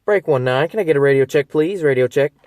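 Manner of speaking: CB radio call. Shown as a demonstration. Driver calling out over the CB for a radio check. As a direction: call it out over the channel like a trucker. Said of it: "So let's go ahead and do that".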